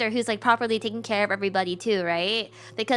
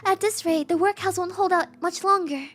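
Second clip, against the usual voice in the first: higher, pleading showy woman's voice; Sarah hamming it up to sponsors, higher and pleading; theatrical Sarah; 6 semitones higher than usual. Acted. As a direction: overplay the needy matron for sponsors.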